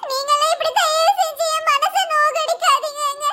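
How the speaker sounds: sobbing plea. Acted. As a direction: plead through sobs to her husband. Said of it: "என் முன்னாடி அழுது இப்படி irritate பண்ணாத". (அழுகையுடன் மன்றாடல்)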